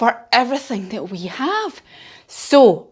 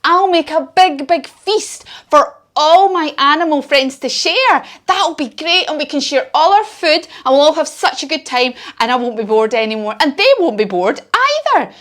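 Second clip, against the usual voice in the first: lightly voiced bear, a bit higher and eager; Barney Bear's happy voice; 4 semitones higher than usual. Barney Bear planning a feast for friends, lightly voiced. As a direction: brighten up with the bear's sudden idea. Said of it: "and he said".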